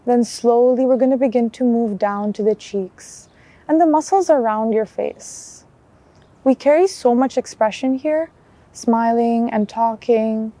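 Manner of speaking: calm guided body scan with long pauses; unhurried mindfulness guide, even and measured; guided meditation. Acted. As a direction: lead them gently through a check-in, leaving space between phrases.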